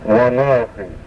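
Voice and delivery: wanahi with a throaty guttural middle sound. Shown as a demonstration. Teacher demonstrating the guttural sound in wanahi. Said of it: "It's a guttural".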